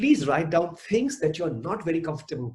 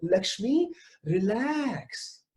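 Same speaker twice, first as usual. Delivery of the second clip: self talk; 7 semitones higher, much slower than usual. Acted. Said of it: "I am telling myself".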